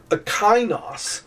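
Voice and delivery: slow, careful Greek word "Akainos" read out. Shown as a demonstration. Teacher reading Greek to first-year students, slow and careful. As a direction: sound out "Akainos" slowly for the class. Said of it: "I give you an example here".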